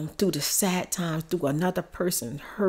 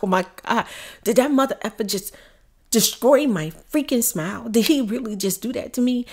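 loud, outraged disbelief, acted out; reenacted stunned indignation; shocked; 3 semitones higher, 4 dB louder than usual. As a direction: relive the shock with raised volume. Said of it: "I was so shocked".

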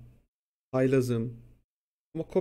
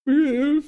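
loud, high-pitched imitation sob; exaggerated wordless crying wail; mock sobbing wail; 13 semitones higher, 11 dB louder than usual. Student breaking down before the teacher, mock sobbing. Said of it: "Falan yapıyorum böyle".

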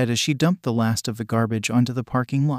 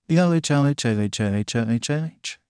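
laughing; slower than usual. A narrator's reading. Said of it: "We busted out laughing".

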